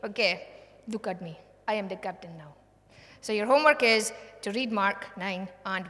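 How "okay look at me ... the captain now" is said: gentle, loving invitation; loving reassurance to a weary listener. Shown as a demonstration. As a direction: say it tenderly, like a caring friend. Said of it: "He's saying it in a loving way".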